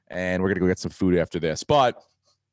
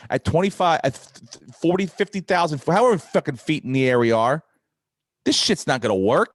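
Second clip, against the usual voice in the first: raised, higher exasperated rant; mock rant; 7 semitones higher than usual. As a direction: rant at her like you've had enough. Ranting at flight attendant about wifi.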